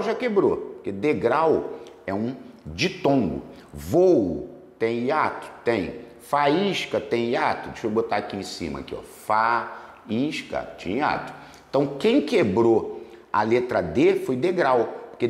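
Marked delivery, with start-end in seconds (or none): 3.7-5.5 slow teacher question. Shown as a demonstration. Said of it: "teacher asks class". 6.2-7.7 slow teacher question. Shown as a demonstration. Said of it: "teacher asks class". 9.0-11.3 slow confirm. Shown as a demonstration. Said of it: "teacher confirms".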